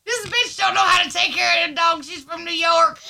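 loud, high Southern grumble; mock Southern. Imagined local scorning the New York owner, mock Southern accent. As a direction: complain in a hammed-up Southern twang.

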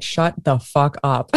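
drawn out, slow and flat-out done; slow fed-up retort. Retold or imitated. Co-host telling a friend she's fed up, slow retort. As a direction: say it slowly, fed up with hearing it. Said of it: "and I'm just like".

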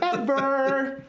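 teasing stage whisper. Pretend. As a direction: breathe the word like a secret. Teasing secret about pants.

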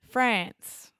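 France with the flat Aussie a, as in "pants"; Australian-accented France, short front vowel. Shown as a demonstration. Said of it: "that's probably my Australian accent".

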